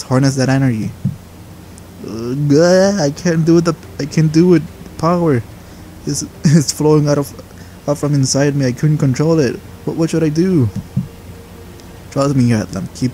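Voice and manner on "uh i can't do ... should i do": higher, strained and breathless; panicked apprentice. Acted. Apprentice begging master for help, panicked. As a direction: push words out through mounting panic. Atlam overwhelmed by power.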